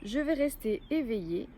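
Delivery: measured yoga nidra guidance with long pauses; guided relaxation. Acted. Yoga teacher guiding listeners to lie still and let go, guided relaxation. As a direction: lead them into rest, phrase by phrase, clearly voiced.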